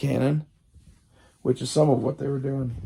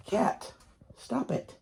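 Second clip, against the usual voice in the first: hushed whisper to the cat; a sharp whispered stop it; whispered scold; 9 semitones higher, 13 dB quieter, slower than usual. Real, not acted. Speaker tells the cat off, whispered.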